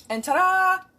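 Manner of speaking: excited. Real, not acted. Presenting the finished cake.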